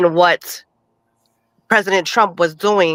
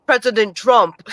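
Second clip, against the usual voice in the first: put-on Jamaican accent; 2 semitones higher than usual. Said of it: "We'll just play it off as you do".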